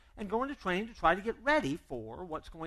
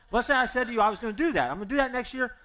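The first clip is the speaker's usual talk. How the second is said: half-laughing, louder and higher; 7 semitones higher, 8 dB louder, faster than usual. Acted. Pastor amused while setting up his example, laughing. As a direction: chuckle through the setup.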